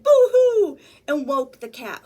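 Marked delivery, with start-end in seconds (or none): 0.0-0.8 loud, high hammed-up boo-hoo; mock crying. Frightened rat crying out, hammed-up. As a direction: wail it like a cartoon crybaby. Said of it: "who cried".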